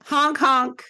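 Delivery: high goofy clown honk; silly clown. Pretend. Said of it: "my co-clown".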